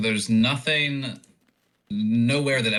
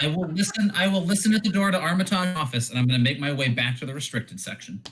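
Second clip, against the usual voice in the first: laughing; 5 semitones higher than usual. Real, not acted. Giggling while declaring action.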